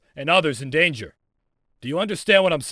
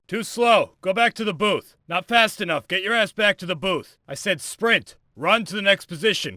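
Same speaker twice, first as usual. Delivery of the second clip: higher-pitched stern order; stern reprimand; 4 semitones higher than usual. Acted. Instructor rejects a slow sprint run.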